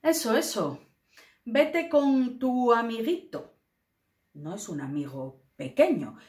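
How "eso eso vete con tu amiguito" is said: resentful, mocking delivery; scornful tone. Teacher acts out a jealous put-down, mocking and scornful. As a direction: sneer at the little friend. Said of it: "lo captaréis por la entonación".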